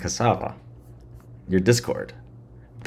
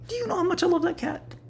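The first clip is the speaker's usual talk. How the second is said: much higher cooing over the cat; 4 dB quieter than usual. Real, not acted. Gushing about his cat.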